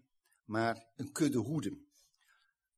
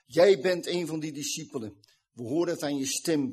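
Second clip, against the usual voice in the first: raised, louder accusation at the start, easing off; accusing bystanders; 3 semitones higher, 6 dB louder than usual. Retold or imitated. Bystanders confront Peter after hearing him swear, accusing. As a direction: call him out in front of everyone.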